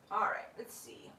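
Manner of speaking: voiceless whisper. Real, not acted. Owner whispering while handling sleepy gliders. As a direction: breathe it so you don't wake them.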